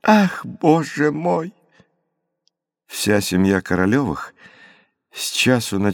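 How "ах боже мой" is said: excited gasp. A narrator's reading. Natalya's joyful exclamation.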